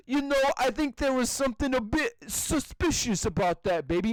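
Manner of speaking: lightly voiced British guard; imitated British guard. Retelling the Family Guy meme, imitated British guard. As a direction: mimic a mildly suspicious Brit. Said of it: "and then the guy is like".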